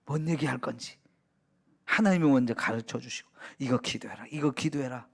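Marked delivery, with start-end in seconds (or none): 3.6-5.1 low, hushed instruction; softly voiced divine nudge; soft prompting. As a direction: murmur it like a quiet prompt in the ear. God voiced quietly prompting prayer.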